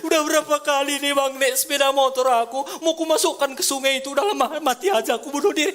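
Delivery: a hint of a high, loud taunting voice, speeding up; lightly voiced devil quote; devil's taunt retold. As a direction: retell the devil's whisper with a light mocking edge. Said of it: "iblis itu selalu bilang".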